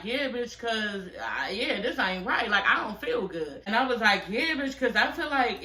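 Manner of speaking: a touch of a sob, pleading; mock tearful complaint to her sister; tearful plea. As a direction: voice cracks as if crying.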